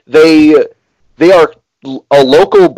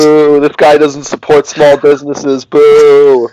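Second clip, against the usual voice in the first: playful drawn-out booing; joking crowd heckle; mock heckling; 2 semitones higher, slower than usual.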